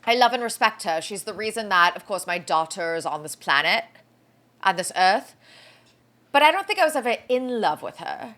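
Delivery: lightly attempted English accent; a hint of imitated English accent; a singer's English accent. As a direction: quote him in a loose British accent, dropping the r's. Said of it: "I can't even try to do his accent".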